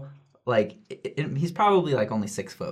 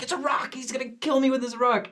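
panicked thought; 13 semitones higher than usual. Retold or imitated. Panicked inner voice.

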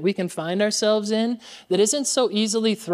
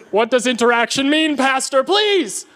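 mock teasing congregation; 5 semitones higher than usual. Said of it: "are like".

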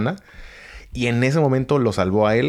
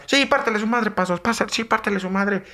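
egging on a fight; 13 semitones higher than usual. Retold or imitated. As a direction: chant him on to beat the narrator. Crowd cheers on Pasos.

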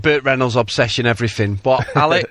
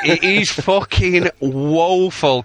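laughing; much slower than usual. Real, not acted. Laughing at the bad acting.

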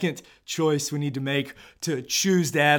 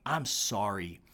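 humble apology. Pretend. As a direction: lower yourself as you say it. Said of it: "lower yourself and say".

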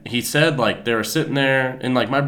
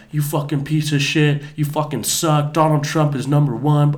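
higher-pitched mock yell of outrage; retold heckler yell; 5 semitones higher, 4 dB louder than usual. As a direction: imitate a heckler yelling, held short of full shouting. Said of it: "she was yelling out".

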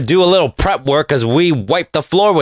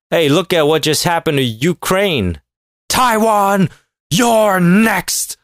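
mock threatening tweet; 3 semitones higher, slower than usual. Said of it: "at Taiwan".

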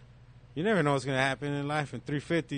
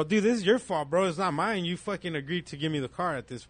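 heated, higher retold argument at the dealer; 4 semitones higher than usual. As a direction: throw the blame back at him, heated.

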